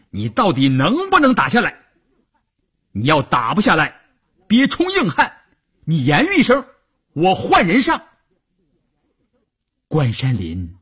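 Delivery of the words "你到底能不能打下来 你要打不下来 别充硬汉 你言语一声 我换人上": impatient superior's raised voice; stern ultimatum. A narrator's reading. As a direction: pitch climbing high as the demand builds. Superior scolds commander by phone.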